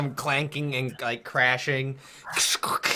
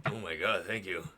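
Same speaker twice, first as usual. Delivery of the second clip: grateful cook; 6 semitones lower than usual. Acted. Game master voices grateful cook.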